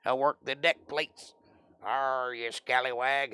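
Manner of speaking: lightly voiced old-salt pirate; a touch of playful pirate; pirate talk. Explaining boatswain's mate with "Arr, you scallywag", playful pirate talk. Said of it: "Is that better?".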